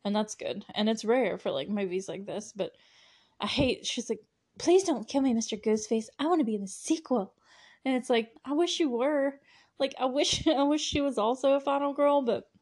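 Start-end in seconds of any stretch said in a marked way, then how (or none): 4.6-7.3 mock pleading victim. Mocking a victim's plea.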